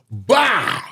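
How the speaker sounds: cartoon stool-break noise; imitated crash. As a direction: punch out one drawn crash noise. Imitates stool breaking under him.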